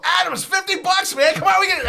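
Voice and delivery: excited pleading. Retold or imitated. Telling Adams the deal, high excited plea. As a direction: beg your buddy with high excitement. Excited begging his buddy.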